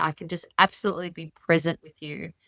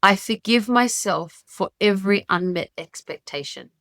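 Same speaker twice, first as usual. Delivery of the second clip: sincere affirmation. Shown as a demonstration. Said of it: "these are the words".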